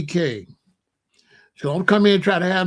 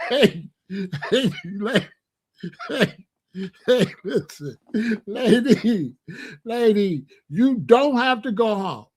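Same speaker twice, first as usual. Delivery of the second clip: higher mock coaxing call to the lady; hammed-up coaxing, pitched up; 3 semitones higher than usual. Speaker coaxing the Chinese lady to leave, higher mock call.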